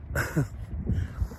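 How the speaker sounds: a short, breathy burst of real laughter; breaking into laughter. Real, not acted. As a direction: laugh at the absurdity before finishing. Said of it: "I can't even say it without laughing".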